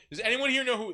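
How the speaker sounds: high, loud calling out; mock officer calling to the group; imitated lieutenant. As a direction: call out a question to everyone. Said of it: "there's a lieutenant who's like".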